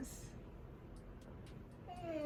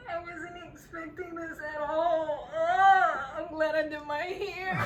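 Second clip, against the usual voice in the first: crying through laughter; 3 semitones higher, 4 dB louder than usual. Real, not acted.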